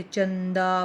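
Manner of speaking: चंदा said slowly with the nasal ं clearly through the nose; nasal anusvara demo. Shown as a demonstration. Teacher slowly demonstrating the nasal anusvara sound. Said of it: "अनुस्वार का उच्चारण नाक से होता है".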